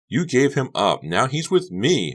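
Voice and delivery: put-on high, loud insistent girl; insisted. Honey insists to Becca, high and firm. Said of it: "Honey insisted".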